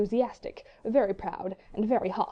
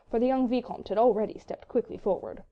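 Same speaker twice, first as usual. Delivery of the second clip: ordinary delivery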